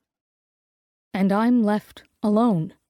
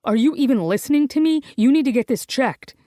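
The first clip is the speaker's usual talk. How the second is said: higher and quicker, pushed up; almost shrill; 4 semitones higher, 3 dB louder, faster than usual. Acted. Gray panicking at Ivy over the lump, higher and fast. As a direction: panicky high-pitched pleading. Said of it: "his voice almost shrill".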